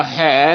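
ਹੈ said with a weighty, long vowel; heavy. Shown as a demonstration. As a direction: overdo ਹੈ as a heavy haai. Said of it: "ਇਹ ਭਾਰਾ ਨਹੀਂ ਬੋਲਣਾ". (ਹੈ ਭਾਰਾ ਬੋਲੋ)

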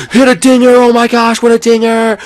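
very high, loud cheering; excited squeal. Real, not acted. Gamer cheering Baby Peach's hit, excited squeal.

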